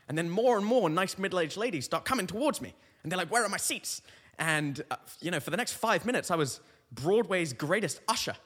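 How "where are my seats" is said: high British theatregoer's question; lightly hammed-up British lady asking for help. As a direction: ask in a raised British lady voice. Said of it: "she's British in this story".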